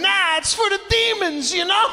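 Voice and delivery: mock old-world explanation. Young man explaining red pepper to his date, mock earnest. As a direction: play the true believer explaining demons.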